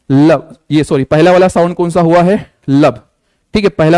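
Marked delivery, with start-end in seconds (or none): 0.1-0.6 heartbeat lub. Shown as a demonstration. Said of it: "कैसा कर रहा है?".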